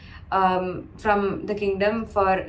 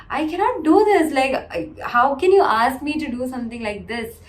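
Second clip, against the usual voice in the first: mock-shocked refusal, pitched up; shocked protest; 4 semitones higher, faster than usual. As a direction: imitate a shocked king protesting. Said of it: "Dasharatha was just shocked".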